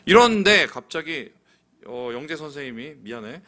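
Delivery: normal talking voice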